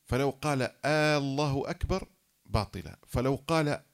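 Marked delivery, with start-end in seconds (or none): 0.9-2.1 "الله" opened on a long, louder aa, ending on a rise; stretched initial hamza. Shown as a demonstration. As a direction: hold the first a of "الله" before "أكبر". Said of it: "عدم مد الهمزة".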